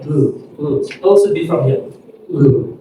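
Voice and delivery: low buzz on "mm"; voiced throat sound. Shown as a demonstration. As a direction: hum "mm" from the vocal cords. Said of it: "comes from your throat".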